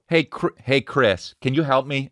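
high, sing-song call to her son; mom calling. Retold or imitated. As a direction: call out sweetly like mom wanting a favour.

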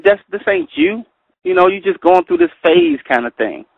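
lightly voiced friend pushing back; mock friends. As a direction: friends coaxing him back to the old ways. Friends pulling him back.

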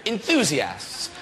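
Enthusiasts drawn out slowly, each syllable weighed; slow and deliberate. Shown as a demonstration. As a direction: say Enthusiasts slowly as if tasting the word. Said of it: "That sounded enthusiastic".

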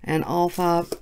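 flat robotic monotone; even, mechanical robot delivery. Real, not acted. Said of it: "Why am I talking like a robot?".

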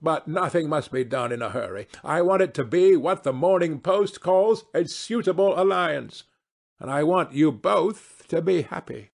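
hint of a grand lady making plans; lightly voiced society hostess. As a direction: lightly play a matchmaking hostess.

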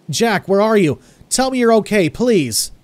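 high, loud, pleading cry; sobbing, desperate plea. A narrator's reading. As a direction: beg through sobs for him to be okay. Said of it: "I sobbed".

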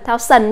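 P=A; wrong pronunciation. Shown as a demonstration. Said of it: "đừng đọc là thao sần".

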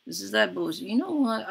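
high, loud yell, peaking on customers; frustrated yelling. Real, not acted. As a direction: blow up at the useless employee. Yelling at Sim over customers.

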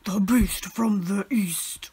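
slow dramatic whisper of the storm's name; hushed slow mock-ominous whisper; spooky whisper. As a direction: breathe it out like an ominous legend.

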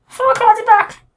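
very high, tiny cartoon puppet crying for help; squeaky Pinocchio voice. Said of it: "I don't even know what his voice is".

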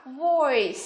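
"voice" drawn out with an "oi" glide; model pronunciation. Shown as a demonstration. Teacher shows only D differs, modelling "voice" with "oi". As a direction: pronounce "voice" as a careful model word. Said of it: "D phát âm là".

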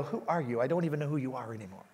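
hushed, fast mock disbelief; a sister teasing him online, hushed and quick. Sister posting teasing comments, quietly and fast. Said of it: "she'd go".

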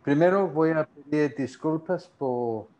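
Spanish with a gringo accent; English speaker's accent in Spanish; American accent Spanish. Real, not acted. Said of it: "sigo hablando como gringo".

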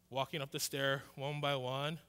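low, soft, slowed-down delivery; deliberately slow. Shown as a demonstration. Kid reluctantly climbing the tower stairs, deliberately slow. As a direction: draw it out step by step. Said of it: "like, this slow".

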